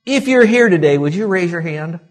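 mock questioning with high pitch; mock silly question. Shown as a demonstration. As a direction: ask it as if it were a dumb question. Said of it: "it'd be like me saying this".

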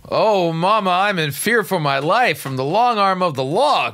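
high, swooping melodramatic plea; mock pleading. Host riffing on the followers calling her Mama, mock pleading. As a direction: wail it as a mock-dramatic appeal to Mama. Mockingly quotes lyric after hearing Mama.

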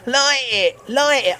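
lightly imitated insistent heckler; mock heckler yell. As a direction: chant it like a goading heckler. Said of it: "the bloke that had been screaming".

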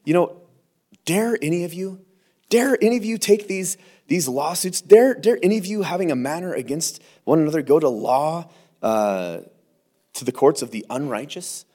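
a touch of Paul's indignant rebuke; Paul scolding. Retold or imitated. Paul rebukes the quarreling church, mildly indignant. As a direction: challenge them like the apostle. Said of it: "He says".

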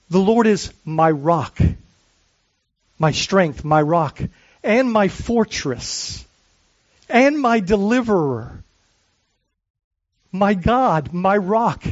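slow, measured reading of a psalm; solemn reading aloud to the congregation; slow scripture reading. Acted. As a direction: savor each name for God, slowly. Reads the psalm slowly.

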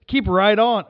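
high-pitched imitation Aussie sat-nav; Australian accent. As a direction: give directions in a put-on Australian accent. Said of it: "put it to the Australian accent".

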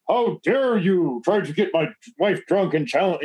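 slow, put-on indignation; mock outrage. British husband challenges him in public, mock indignant. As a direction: act the affronted husband, drawn out.

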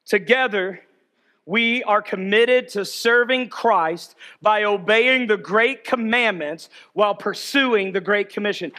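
slow, measured group recitation; reading aloud together. Real, not acted. Preacher leading church through the purpose statement, reading aloud together. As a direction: lead the room through it word by word. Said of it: "would you read this out loud with me".

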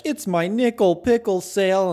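high, loud warbling auto-tuned jingle; bad auto-tune. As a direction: sing it like a cheesy auto-tuned ad. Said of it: "they do really bad auto-tune".

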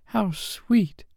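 put-on high-pitched girlish admiration; Wendy's high, admiring exclamation; delighted cry. A narrator's reading. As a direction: coo it up high, full of admiration. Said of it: "cried Wendy".

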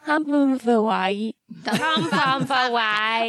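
"Come from the way" slurred like backwards tape; reversed-speech sound. Shown as a demonstration. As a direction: mangle "Come from the way" into woozy reversed talk. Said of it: "you sounded like this".

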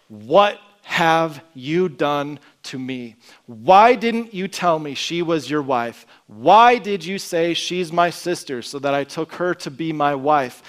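slow, heavy, building indignation; angry shout. Retold or imitated. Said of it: "he is yelling, he's angry, he's shouting at Abram".

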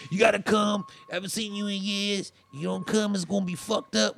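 pleading. Retold or imitated. Friend urging him to come hang out, pleading. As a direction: press a friend urgently to come over.

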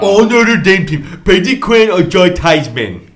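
loud, slow, laughing outburst; yelling across the room. Real, not acted. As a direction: blurt it out loud through laughter. Loud laughing outburst mid-bite.

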